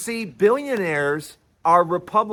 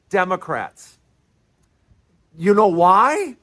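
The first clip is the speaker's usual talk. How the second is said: ordinary talk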